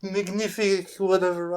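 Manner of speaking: slipping put-on French accent; playful, wobbly French accent. Shown as a demonstration. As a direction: attempt a French accent, loosely held. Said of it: "my accent, it just keeps going out and in".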